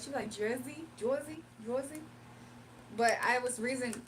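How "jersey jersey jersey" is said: Jersey with a New Jersey oy sound; New Jersey accent. Retold or imitated. Mom's friend saying Jersey in a New Jersey accent. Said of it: "how they say Jersey in Jersey".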